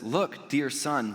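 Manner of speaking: slow, tender call to a son; tender father. Acted. Father to the older son, slow and tender. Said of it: "he says".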